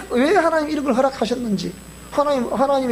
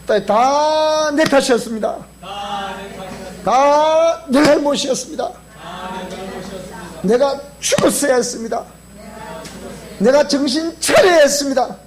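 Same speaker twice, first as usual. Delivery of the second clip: slow, louder repentant confession. Shown as a demonstration. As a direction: say it out, slow and firm. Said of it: "왜 이 목소리 작아, 이렇게?". (작은 목소리 지적 후 더 크고 느리게 하는 고백)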